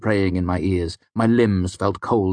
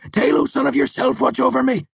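trembling prayer; 3 dB louder than usual. A narrator's reading. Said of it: "Martin continued praying".

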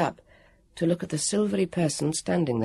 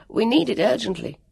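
put-on high, pressing boy's plea; urgent Jonathan; 7 semitones higher than usual. Jonathan appealing to the guardian, urgent boy voice. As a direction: plead the case urgently.

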